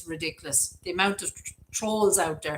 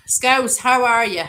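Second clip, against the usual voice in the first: higher, louder welcome call; cheery greeting; 6 semitones higher, 8 dB louder, slower than usual. Real, not acted. Welcoming Scouse into the live chat, calling out louder and higher. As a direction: call out a warm hello. Greeting a viewer who joined.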